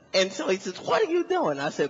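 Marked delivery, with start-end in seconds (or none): 0.8-1.6 high, loud mock-cop question; yelled police demand; demanding policeman. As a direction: challenge a suspect in a raised voice. Cop interrogating him loudly.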